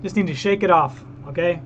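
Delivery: brisk, worked-up start, reining it in; frustrated, trying to shake it off; contained rage. Real, not acted. Streamer pausing the song to calm down, contained rage. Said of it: "I got all this rage inside me".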